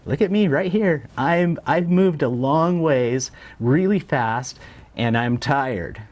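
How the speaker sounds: voicing the market. The chart voiced as the market, begging to be noticed. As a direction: speak as the market calling for attention. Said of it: "it's saying".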